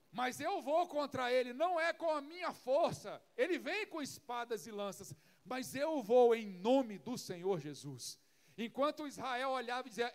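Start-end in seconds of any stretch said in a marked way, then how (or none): 0.1-8.2 louder, firm declaration of faith; bold faith. Retold or imitated. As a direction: stand up to the giant with conviction. David answers the giant boldly. (fé ousada e firme)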